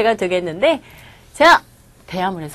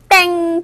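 wrong-answer buzzer; 6 semitones higher, much slower than usual. Pretend. Buzzes wrong Konglish usage.

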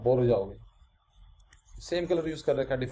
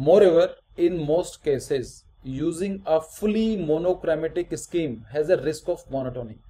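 slow, deliberate read-aloud; reading out text; much slower than usual. Acted. Teacher reading notes to students, slow and deliberate. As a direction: read it out slowly, phrase by phrase.

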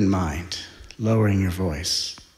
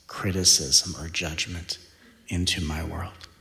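calm prayer; 3 semitones lower, 4 dB quieter than usual. Shown as a demonstration. Model calm prayerful reply.

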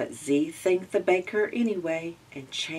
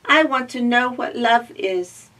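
higher, loud eager robot voice; cheerful little robot; 6 semitones higher, 7 dB louder than usual. Acted. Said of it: "explained Z".

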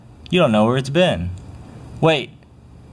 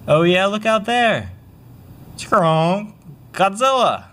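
excited shout; 7 semitones higher, slower than usual. Acted. Boy sees Godzilla appear.

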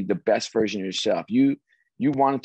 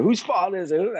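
higher-pitched mock yell; acted irate questioning, moderately raised; retold screaming; 8 semitones higher than usual. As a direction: imitate a boss demanding someone to blame. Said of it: "he's screaming back and forth".

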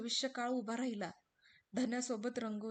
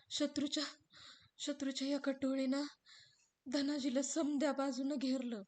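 lightly raised sorrowful telling; grieving servant recounting; 3 semitones higher, 4 dB louder than usual. Acted. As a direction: tell the battle with dread. Ramu लढाई सांगतो. (लढाईची खबर दुःखाने सांगणारा रामू)

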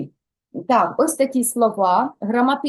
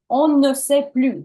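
louder "On ne sait plus" with weight on "plus"; contrast emphasis; 3 semitones higher, 4 dB louder than usual. Shown as a demonstration. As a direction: lean on the change to "plus". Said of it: "Дивіться, що змінилося".

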